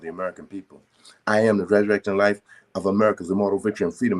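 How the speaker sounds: steady, commanding prayer recital; decree prayer. Acted. Brother recites Saint Germain's daily decrees as a solemn prayer.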